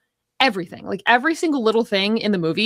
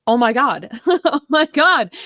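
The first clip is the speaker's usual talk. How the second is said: higher, slow, laughing in exasperated recognition; exasperated oh my God; 4 semitones higher, 4 dB louder, slower than usual. Retold or imitated. Recalling her own frustration with an ex, laughing exasperatedly. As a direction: groan it out with a laugh, fed up. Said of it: "And I was just like".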